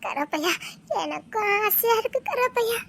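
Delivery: soft crying. Acted. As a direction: whimper the name, then the wish. Tearful plea to Karuppaiya.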